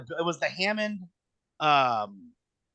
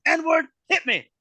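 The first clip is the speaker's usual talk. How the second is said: loud slow demand; 13 semitones higher, 5 dB louder, slower than usual. Retold or imitated. New Jack demanding a harder hit.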